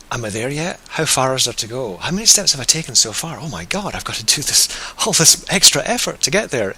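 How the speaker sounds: mock exasperation, pitch lifted; fretting hiker. Meditation teacher voicing an overwhelmed hiker's thoughts, mock fretting. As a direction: act out mounting impatience with the climb.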